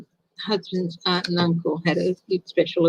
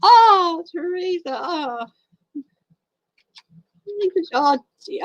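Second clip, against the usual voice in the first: moved; 10 semitones higher, slower than usual. Real, not acted. Moved by viewer's loss.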